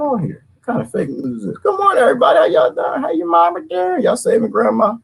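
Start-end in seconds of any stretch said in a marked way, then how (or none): 1.6-4.9 high hammed-up greeting to viewers. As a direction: sing out the greeting to the crowd.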